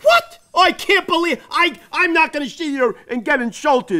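affronted outburst settling into a huff; indignant. Acted. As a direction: take offence, theatrically outraged. Clown offended at being corrected.

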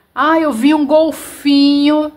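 high, loud, chatty exclamation; imitating how people casually blurt it out; mock excited remark; everyday excited exclamation. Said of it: "A gente até fala, né?".

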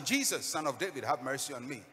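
acted beggar's shout, not yet full force. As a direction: cry out to be noticed in a crowd. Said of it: "he starts shouting".

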